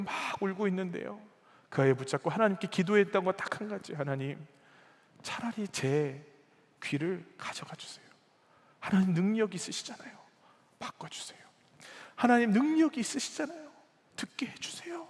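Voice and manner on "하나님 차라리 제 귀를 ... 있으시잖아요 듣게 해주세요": retold desperate prayer, swinging from hushed to high; imploring, re-enacted father's prayer; earnest pleading. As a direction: plead with God, falling to a whisper on the requests. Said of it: "그렇게 간절히 기도했는데".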